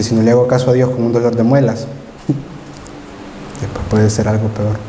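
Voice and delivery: nervous, laughing worry; laughing fear. Retold or imitated. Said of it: "me dio miedo".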